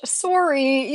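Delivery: "Sorry" with a long round "sore-ee" vowel, Canadian style; Canadian accent. Retold or imitated. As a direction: imitate a Canadian saying "Sorry". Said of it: "like a Canadian".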